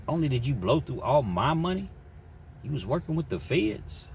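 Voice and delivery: high, loud, heated back-and-forth; heated argument. Retold or imitated. Husband and wife fighting in the car, high and loud. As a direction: yell the accusations and excuses.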